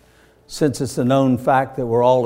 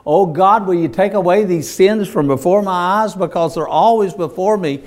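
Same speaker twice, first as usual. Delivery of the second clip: pleading prayer; 4 semitones higher, 4 dB louder than usual. Acted. David's prayer voiced by preacher.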